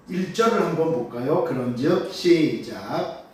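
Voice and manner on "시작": slow, stretched start signal; drawn-out cue. Real, not acted. Pastor cues the congregation to read, drawn out. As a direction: stretch out the word to bring everyone in.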